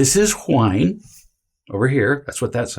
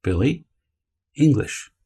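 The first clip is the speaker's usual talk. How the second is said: calm tone. Shown as a demonstration. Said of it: "simply in this tone".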